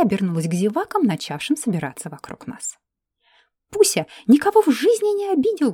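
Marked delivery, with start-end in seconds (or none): 3.7-5.7 high, louder indignant squeal; shrieked. Acted. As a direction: shriek it in outrage. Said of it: "взвизгнула эльфийка". (визгливо, возмущённо выкрикнуть)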